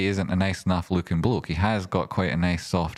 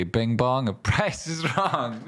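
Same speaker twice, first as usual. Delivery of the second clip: laughing catchphrase; 4 semitones higher, slower than usual. Retold or imitated. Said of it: "together we say".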